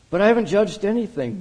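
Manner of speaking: bewildered denial; in confusion. A narrator's reading. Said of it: "Mac offered in confusion".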